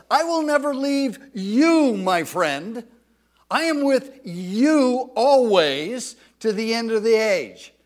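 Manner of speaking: loud, tender promise as God; God's voice. Retold or imitated. Preacher voicing God comforting the listener, loud and earnest. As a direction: speak it as God assuring a friend. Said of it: "he's saying to us".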